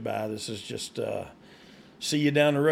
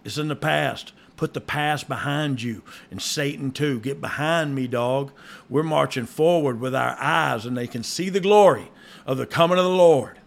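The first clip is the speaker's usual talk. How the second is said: building preacher fervor, louder at the end; mock preaching; 4 dB louder than usual. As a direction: preach it like a revival sermon. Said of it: "I was gonna preach there for a second".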